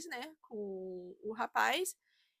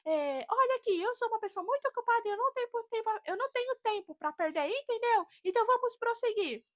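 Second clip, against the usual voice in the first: mock rude clerk; 10 semitones higher, 3 dB louder than usual. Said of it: "ele pegou e falou assim".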